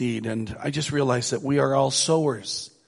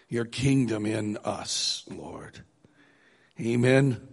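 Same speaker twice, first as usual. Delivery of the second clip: prayer. Acted. Pastor praying over the congregation, hushed and reverent.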